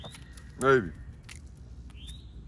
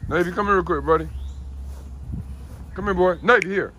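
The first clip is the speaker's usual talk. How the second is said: loud, higher call for the dog; 7 semitones higher, 5 dB louder than usual. Real, not acted. Owner calling Navy over to see something, loud call. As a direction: raise the voice to summon him.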